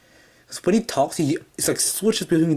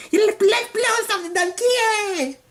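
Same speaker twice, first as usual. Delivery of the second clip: much higher, squeaky, giddy manic voice; psychotic guy voice. Retold or imitated. Reviewer imitating the cartoon's psychotic face, squeaky and gleeful. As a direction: gleefully beg to blow things up. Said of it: "He's like".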